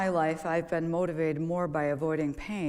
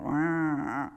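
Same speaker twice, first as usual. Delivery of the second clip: drawn-out wavering whine; imitated dog whine; 2 semitones lower than usual. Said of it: "like, whining".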